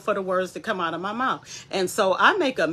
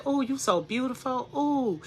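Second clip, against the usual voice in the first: higher, mock-admiring coo to oneself; admiring self-talk; 6 semitones higher, 4 dB quieter than usual. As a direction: play at gushing over your own reflection. Voices admiring mirror self-talk.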